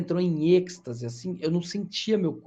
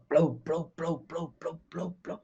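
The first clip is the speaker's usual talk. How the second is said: imitated heartbeat; 4 dB quieter, slower than usual. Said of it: "meu coração só ficava batendo forte".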